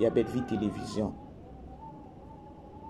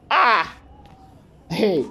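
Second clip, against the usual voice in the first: surprised exclamation; 8 semitones higher, 8 dB louder than usual. Real, not acted. Reacts to cabin announcement.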